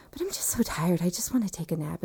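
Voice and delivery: soft, drowsy murmur; weary plea. Retold or imitated. Exhausted patient to anesthesiologist, weary soft plea. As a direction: plead softly, as if drifting off.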